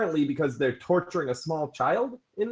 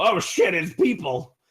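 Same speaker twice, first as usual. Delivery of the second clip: a quick startled yelp, raised; guard blurting out in alarm; startled lizard guard; 3 semitones higher, 4 dB louder, slower than usual. Acted. Lizard guard to his buddy, startled. Lizard folk spotting strangers.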